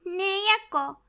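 ordinary delivery, nothing marked

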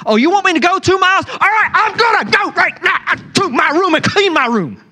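high, fast, bratty mock compliance; sarcastic kid. Preacher mimics a sulky teen talking back to a parent, high and sarcastic. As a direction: sneer it out like a sulky teenager told to clean up.

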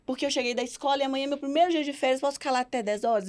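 lightly voiced eager little boy asking permission; a hint of a pleading son; mild put-on kid voice begging to stay out late; child asking mom.

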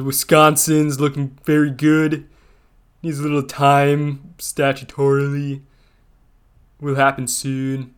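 a loose, mumbled Stallone impression of a tweet; Sylvester Stallone voice. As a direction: mush the words like Stallone, barely recognizable. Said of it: "read a Trump tweet in Sylvester Stallone's voice".

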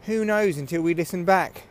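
recorded through headphone mic; slightly muffled, thin headphone mic; headphones used as mic. Real, not acted. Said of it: "I'm recording through headphones".

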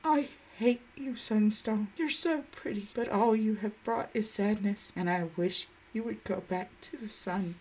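put-on a baby kin crying softly to the stone; softly crying child. Baby kin alone at the stone, softly crying. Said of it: "softly cried".

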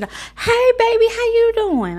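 very high, loud sugary greeting; fake-nice mom. Mom greeting son's friend, imitated in high, loud sweetness. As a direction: gush it in an exaggerated sweet pitch. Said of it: "she's always a nice person".

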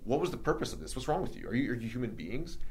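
mildly acted indignation; indignant questioning. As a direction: demand an explanation, retelling it. Confronting the men who attacked him.

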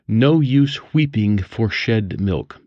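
put-on old-fashioned speech. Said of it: "speak as one living in the seventeenth century".

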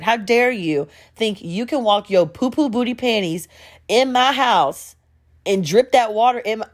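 indignant scolding, punched words; mock outrage. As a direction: scold him in mock fury, rising in pitch. Acts out telling him off.

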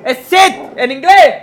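high loud bark of order; shouted command. Real, not acted. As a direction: yell the command.

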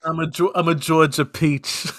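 slipping into a New York accent on "Georgia"; a hint of New York accent. Real, not acted. Joking to co-hosts that he bruises like fruit, New York accent. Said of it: "I give a New York accent".

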